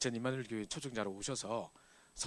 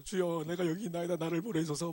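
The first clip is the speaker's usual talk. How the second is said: fervent prayer; 4 semitones higher than usual. Retold or imitated. Acted prayer at altar call.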